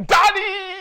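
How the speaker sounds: very loud, very high, drawn-out shout. A preacher tells listeners to call out to God as Father, shouting.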